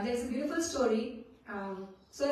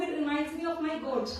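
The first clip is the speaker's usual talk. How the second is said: amused retelling; 4 semitones higher than usual. Retold or imitated. Laughs telling the story's punchline.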